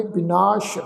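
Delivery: ਬਿਨਾਸ਼ ending in sh, not s; dotted sassa, sh. Shown as a demonstration. Teacher showing the dotted letter, ਬਿਨਾਸ਼ with final sh. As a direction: say ਬਿਨਾਸ਼ as bi-naash. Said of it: "ਸੱਸੇ ਪੈਰ ਬਿੰਦੀ ਲਗਾ ਕੇ".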